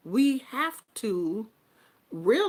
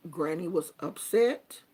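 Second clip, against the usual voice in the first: gentle apology; 6 semitones lower, 4 dB quieter than usual. Retold or imitated. Grandmother apologizing to her granddaughter, soft and tender. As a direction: ease into it tenderly, owning the fault. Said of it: "I said".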